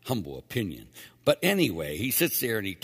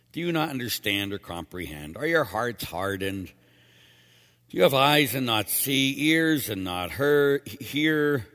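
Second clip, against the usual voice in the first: frustrated; 4 dB louder than usual. Acted. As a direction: voice Jesus's frustration with his apostles. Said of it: "Can you hear the frustration in his voice".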